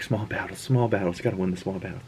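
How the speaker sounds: resigned pep talk to himself, soft; muttering to himself. Retold or imitated. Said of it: "And Mobius is like".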